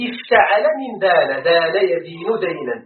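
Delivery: slow dictation. Shown as a demonstration. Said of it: "ابن لي".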